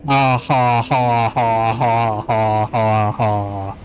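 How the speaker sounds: slow fake ha ha ha, lowering; hammed-up deliberate laughter; mock laugh. Streamer mocking his own joke with a fake laugh. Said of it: "Comedy gold".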